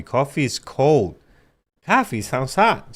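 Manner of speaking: slow, puzzled "Coffee" contrasted; childhood mix-up. Retold or imitated. Co-host recalling his childhood logic, slow and puzzled. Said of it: "I used to call coffee, coffee".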